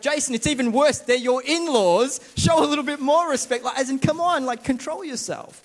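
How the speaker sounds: the other side of his conscience pushing harder; stronger inner voice. Retold or imitated. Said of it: "And on the other side, it's like".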